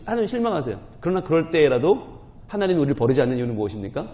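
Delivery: ordinary delivery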